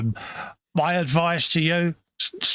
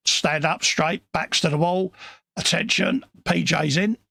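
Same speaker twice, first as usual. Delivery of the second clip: mock drill sergeant; 4 semitones higher than usual. Mock parade call as PJ arrives.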